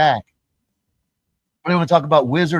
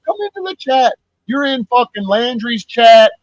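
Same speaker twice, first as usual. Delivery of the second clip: ranting call-out; 6 semitones higher than usual. Real, not acted. Calling out lurkers in a rant.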